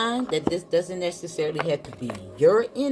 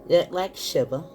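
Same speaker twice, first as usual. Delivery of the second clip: deliberate book reading with breaks between phrases; reading aloud. Acted. Tarot reader reading the Mystic card to viewers, deliberate read-aloud.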